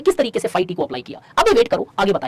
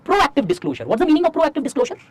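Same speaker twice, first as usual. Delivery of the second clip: slow dictation; 3 semitones higher, much slower than usual. Acted. Dictates slowly.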